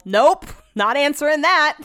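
emphatic, drawn-out nope; defiant refusal. Retold or imitated. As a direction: punch each word, proudly refusing. Acts out ignoring a phone call.

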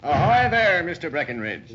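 captain hailing the shipkeeper on arrival, loud call; calling out ahoy. Acted. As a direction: hail them from the doorway.

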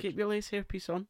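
high camp retort; high sassy tease. Acted. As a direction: fling it up high with sass.

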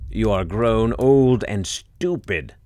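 slow, loud scolding giantess. Acted. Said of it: "cried the giantess in her loud tone".

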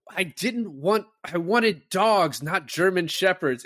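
high, loud mock rant about the dogs; imitated yelling. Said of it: "Sam Rockwell starts yelling at Finkel".

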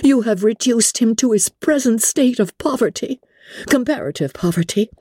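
high, mounting indictment without shouting; energetic accusation. A narrator's reading. Elizabeth charges Darcy with ruining Wickham, energetic. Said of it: "cried Elizabeth with energy".

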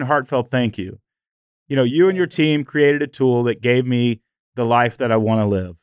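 holding back tears while thanking; choked up. Real, not acted. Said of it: "I'm getting choked up".

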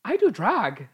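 loud, high gasp of discovery; shocked realisation. Pretend. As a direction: gasp it out like a revelation. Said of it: "he was like".

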